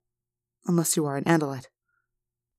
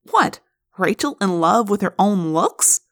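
sarcastic. Acted. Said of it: "an inflection of his mouth sounds that humans call sarcasm".

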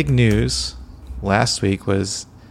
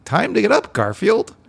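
John's wake-up call; 11 semitones higher than usual. Retold or imitated. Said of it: "and he's saying".

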